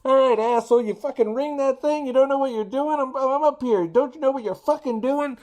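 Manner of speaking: high, loud furious yell; angry yelling neighbor. Retold or imitated. Neighbor yelling at the delivery driver from his window, furious. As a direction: bark it down from the window like an enraged neighbor. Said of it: "proceeds to yell at me".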